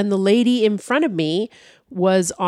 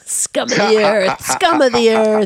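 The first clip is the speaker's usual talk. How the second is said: mock snob sneer; 3 semitones higher, 4 dB louder, slower than usual.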